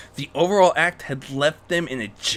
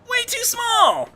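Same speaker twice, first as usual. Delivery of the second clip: squeaky, slow jeering thug; mock the tiny figure in a high squeak; high slow taunting goon; 4 dB louder, slower than usual.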